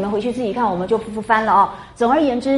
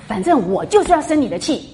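mock sulky whine, a bit higher; petulant girl; 5 semitones higher than usual. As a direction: act out a stubborn girl's huff. Mimicking Daiyu's petulance again. (学林黛玉使性子的语气)

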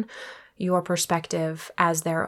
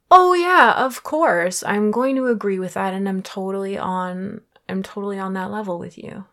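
overeager people-pleaser, hammed up; mock eager agreement; 5 dB louder than usual. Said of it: "that doesn't mean I'm like".

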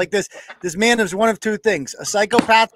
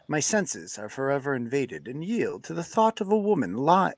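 lightly lowered seductive man voice; Tom Mountain voice; 2 semitones lower than usual. Acted. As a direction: read it like a smooth-talking guy. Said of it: "read this in Tom Mountain voice".

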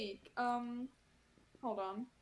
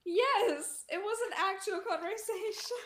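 emphatic insistence; 8 semitones higher, 6 dB louder than usual. Real, not acted. Laughing exaggerated insistence.

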